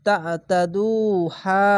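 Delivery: very slow drawn-out recitation; Quran recitation. Shown as a demonstration. Teacher showing students the recited word, slowly drawn out. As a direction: stretch each syllable like tajweed. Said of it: "এক আলিফ টেনে".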